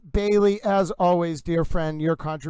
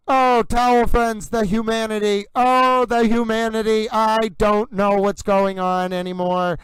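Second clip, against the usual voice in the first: hammed-up old-radio wail, louder and higher; mock lament; 4 semitones higher, 5 dB louder than usual. To the towel friends, a hammed-up old newsreel lament. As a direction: cry it out like a disaster announcer, tongue in cheek.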